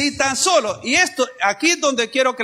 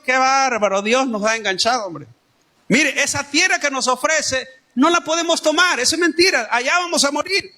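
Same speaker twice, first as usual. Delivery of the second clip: higher, whining mock complaint of the people; complaining Israelites; 5 semitones higher than usual. Preacher voicing the grumbling Israelites, higher mock complaint. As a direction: play the grumbling crowd, half in jest.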